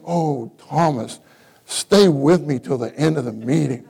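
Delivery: playful plea to stay till the end; yearning plea. Shown as a demonstration. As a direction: linger on the Oh like you need him. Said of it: "But if I say".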